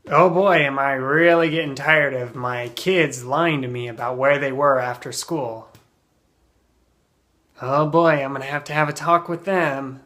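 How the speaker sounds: put-on exasperated parent, emphatic "oh boy"; acted weary annoyance; fed up. Shown as a demonstration. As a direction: build up to a stern talk. Acted complaint about lying kids.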